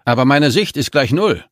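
frustrated. A narrator's reading. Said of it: "rief Amanda frustriert".

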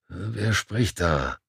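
slow, drowsy, just woken up; half asleep, words dragging slowly; sleepy good morning. Acted. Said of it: "fragte eine schläfrige Stimme".

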